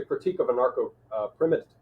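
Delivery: stumbling over a long word, restarting it; real tongue-tied stumble; tripping over words. Real, not acted. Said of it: "I'm tripping over my tongue today".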